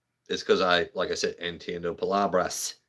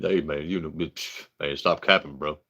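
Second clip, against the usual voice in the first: Tyrone voice; 4 semitones lower than usual. Retold or imitated. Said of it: "my Tyrone voice".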